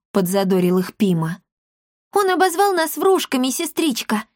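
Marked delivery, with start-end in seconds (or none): 2.1-4.2 put-on high, offended childish outcry; angry exclaim. A narrator's reading. Girl complains to her sister about the boy, angry and high. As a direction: cry out hurt and furious. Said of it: "гневно воскликнула Маришка".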